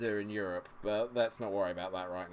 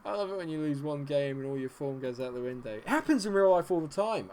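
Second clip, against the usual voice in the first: mock the game's logic with a sneer; sarcastic rant; 3 semitones higher, 4 dB louder than usual. Real, not acted. Sarcastic rant about morale mechanics.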